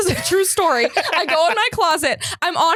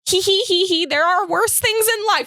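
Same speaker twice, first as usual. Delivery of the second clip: imitated mom; 3 semitones higher than usual. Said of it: "my mom texted me".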